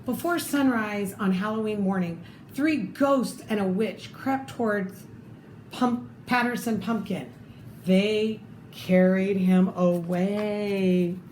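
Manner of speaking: lively read-aloud storytelling voice; story narration. Acted. Reading a picture book to children, lively storytelling.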